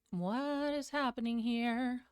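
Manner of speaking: sing-songy. Real, not acted. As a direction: sing the question out lazily. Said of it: "Sorry, I get sing-songy about things".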